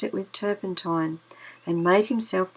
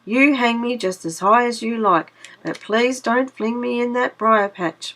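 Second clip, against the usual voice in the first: pleading; 3 semitones higher than usual. Acted. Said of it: "pleaded Brer Rabbit".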